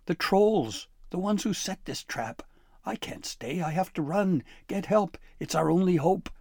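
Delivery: a scared sprite blurting out the plan; high frantic elf urging escape; frightened elf. Acted. Voiced elf Flibberty.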